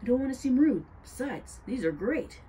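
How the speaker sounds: talking through a mouthful; words round a bite of food; mouth full. A narrator's reading. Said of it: "Tim with his mouth full".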